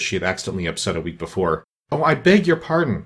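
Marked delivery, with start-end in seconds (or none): 1.9-3.0 high-pitched, dismayed apology; flustered, pitched-up exclamation; great dismay. A narrator's reading. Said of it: "in a tone of great dismay".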